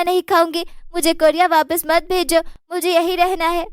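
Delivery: a mild begging daughter-in-law; pleading apology. Acted. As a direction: bride begs mother-in-law not to send her back.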